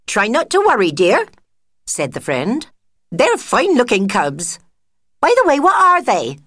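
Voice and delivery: high, loud bright friend voice; a shrill-pitched busybody mouse cooing; fussy friend mouse. Acted. Friend cooing over the new cubs, high and loud.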